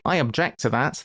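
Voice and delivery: "object" stressed on the second syllable, ob-JECT; verb stress on second syllable. Shown as a demonstration. Gamer explains noun and verb stress, "object" as ob-JECT. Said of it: "it's on the second".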